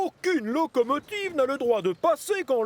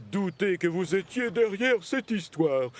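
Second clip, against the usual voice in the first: stern scolding; 7 semitones lower than usual. Acted. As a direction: drag out their names, fed up with them. Controller scolds the twins.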